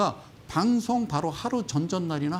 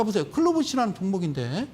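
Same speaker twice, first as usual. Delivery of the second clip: ordinary talk, nothing marked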